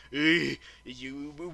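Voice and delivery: ordinary delivery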